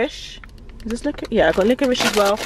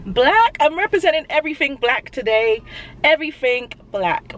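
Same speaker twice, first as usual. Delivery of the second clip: shouting; 5 semitones higher than usual. Acted. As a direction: belt it out like a proud announcement. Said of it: "Why am I shouting?".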